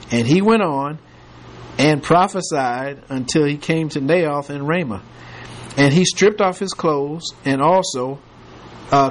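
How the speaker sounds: measured King James reading voice; scripture reading. Acted. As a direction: read the verses steadily to the class. Reads scripture aloud to class.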